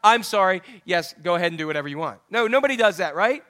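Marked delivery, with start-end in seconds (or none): 0.0-2.2 mock groveling parent. Parent mockingly caving to an angry kid, hammed-up. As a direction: overdo the sorry like a caving parent. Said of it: "Do you ever just go".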